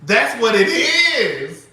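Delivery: slow, loud and final; emphatic declaration. Real, not acted. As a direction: lay it down as fact. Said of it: "y'all know for me to say it".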